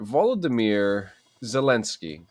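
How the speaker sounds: Volodymyr Zelensky slowly, as VAH-lo-duh-meer zuh-LEN-skee; careful name pronunciation. Real, not acted. Co-host getting the name right, slow careful Volodymyr Zelensky. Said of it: "I wanna make sure I say this right".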